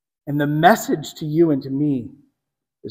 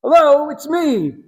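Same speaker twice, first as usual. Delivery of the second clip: casual hello; 7 semitones higher than usual. Pretend. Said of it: "He's not simply saying".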